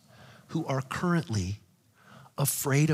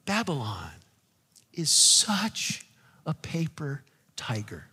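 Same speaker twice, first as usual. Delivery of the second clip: hushed preaching. Acted. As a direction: hush the church to a secret. Sudden drop to hushed tones.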